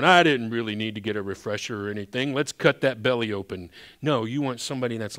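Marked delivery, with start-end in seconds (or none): 0.0-3.7 careless doctor. Retold or imitated. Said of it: "do you want your doctor coming in and going".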